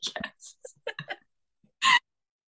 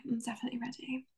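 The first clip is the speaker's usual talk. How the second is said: sexy voice; 13 dB quieter, much faster than usual. Pretend. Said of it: "get your sexy voice on".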